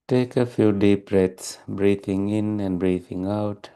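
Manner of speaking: calm, even meditation guidance with long pauses; unhurried, steady meditation teacher delivery; guided meditation. Real, not acted. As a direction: guide listeners gently into stillness, leaving long silences.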